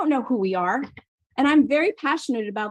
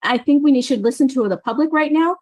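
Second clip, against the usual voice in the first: louder, pressing the point with feeling; a little emotional; 3 semitones higher, 5 dB louder than usual. Real, not acted. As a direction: push hard, you're fed up and emotional. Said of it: "So sorry if I'm a little emotional about this".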